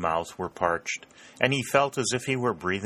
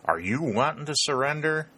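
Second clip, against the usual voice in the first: higher-pitched Southern call, rising question; soft Southern drawl; 9 semitones higher than usual. A narrator's reading. Confederate calling across the brook to enemies, in a Southern drawl. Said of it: "called in a long, soft drawl".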